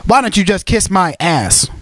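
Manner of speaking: slow, lightly imitated commentator; a hint of a drawling commentator impression. Describing a music remix, slow mock commentator voice. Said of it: "he's literally talking like".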